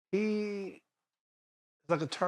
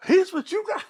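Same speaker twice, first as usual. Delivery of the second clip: very high, incredulous question; disbelieving; 4 dB louder than usual. Retold or imitated. District attorney reacting to the officers, high-pitched disbelief. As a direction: echo it back as if impossible, voice shooting up. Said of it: "'Cause they couldn't believe it".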